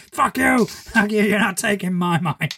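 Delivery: hammed-up defiant yelling; mock rage. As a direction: play at fighting off mind control. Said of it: "start trashing the place".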